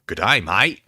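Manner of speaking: a clumsy Aussie greeting; a weak, half-hearted Australian accent; terrible Australian accent. Shown as a demonstration. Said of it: "attempt a terrible, terrible Australian accent".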